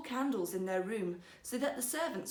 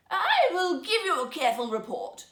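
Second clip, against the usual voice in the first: higher and louder, keen to please; eager old minister; 8 semitones higher, 8 dB louder than usual. Acted. Old minister promising the emperor a careful report, eager and loud. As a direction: promise it proudly, a little too eager.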